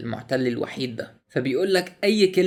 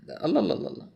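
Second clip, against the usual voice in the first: surprised; 5 semitones higher, 3 dB quieter, much faster than usual. Real, not acted. Surprised by more content.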